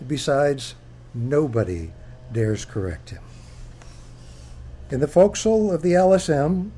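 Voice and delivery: measured book reading voice; reading aloud. Acted. Author reading chapter one to an audience, measured. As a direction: read it like opening a memoir.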